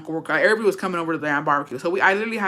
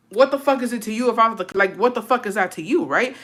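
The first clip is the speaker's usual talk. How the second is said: higher-pitched, mildly indignant comeback; indignant retort; 5 semitones higher than usual. Retold or imitated. Daughter retells answering back to dad, indignant. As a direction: throw back an offended retort.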